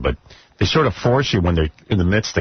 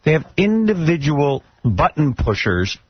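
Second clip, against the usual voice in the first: exasperated; 7 semitones higher than usual. Real, not acted. Host venting about censors.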